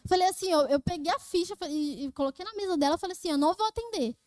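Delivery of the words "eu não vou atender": mildly indignant, putting your foot down; a touch of defiance; retold defiant refusal. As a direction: re-enact a curt refusal to the boss. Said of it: "Eu falei bem assim".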